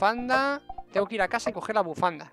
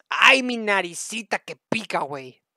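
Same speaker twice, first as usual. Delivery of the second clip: slow, loud put-on Mexican accent; 6 dB louder, slower than usual. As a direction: playfully whine it in a mock Mexican accent. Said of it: "os sale el acento mexicano". (acento mexicano exagerado)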